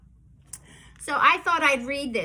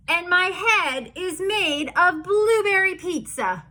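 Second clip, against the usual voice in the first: higher, louder goofy proclamation; silly announcement; 5 semitones higher, 4 dB louder than usual. Acted. Forced silly line in book.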